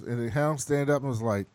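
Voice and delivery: ordinary delivery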